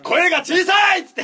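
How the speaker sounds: shouted drill yell, laughing; drill sergeant. Retold or imitated. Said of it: "軍隊じゃん".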